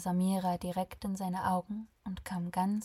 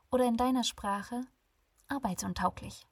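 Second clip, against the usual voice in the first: sarcastic; 4 semitones higher than usual. Acted. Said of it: "triefte nur so vor Sarkasmus".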